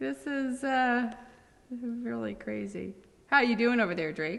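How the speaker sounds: giggly, full of giggles. Checking in on someone over there, feeling giggly. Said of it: "why am I so giggly?".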